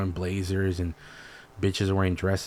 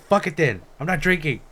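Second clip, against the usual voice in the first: mock sulk; 7 semitones higher than usual. Retold sulk.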